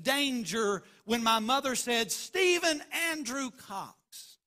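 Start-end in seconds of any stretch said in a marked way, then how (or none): 2.1-4.4 drawn out, higher, slowed full name; stern full-name call. Retold or imitated. Mother summoning her son by full name, stern and drawn out. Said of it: "she was sore displeased".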